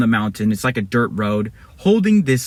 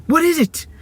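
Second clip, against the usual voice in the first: high, urgent acted question; eager question. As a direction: ask high, dying to know. Eagerly asking about the chest.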